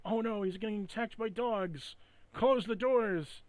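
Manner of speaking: high, slow fake alarm; mock alarm. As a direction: cry out like a B-movie actor. Mock game character alarm.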